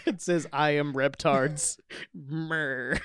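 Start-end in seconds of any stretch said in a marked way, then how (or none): 0.5-1.8 slow, drawn-out monster announcement; lightly voiced giant dinosaur; flame-breathing dinosaur. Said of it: "a giant flame-breathing dinosaur that says". 2.1-3.0 drawn-out mock monster growl; half-laughed dinosaur roar. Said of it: "a giant flame-breathing dinosaur".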